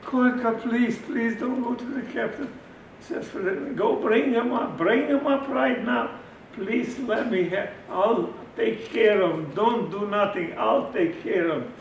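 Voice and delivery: high, loud desperate begging; loud pleading. Retold or imitated. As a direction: beg him not to report it. Doctor begs speaker.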